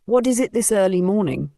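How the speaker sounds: a mild surprised lift. Acted. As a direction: caught off guard at dawn. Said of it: "she asked, surprised".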